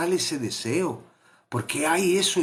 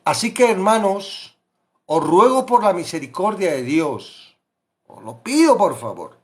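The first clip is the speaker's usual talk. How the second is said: pleading; 4 semitones higher, 6 dB louder than usual. Acted. Preacher pleads with congregation.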